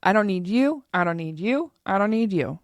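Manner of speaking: hear-me-roar independence, lightly played; defiant badass. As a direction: toss off I don't need you like a proud loner. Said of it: "hear me roar".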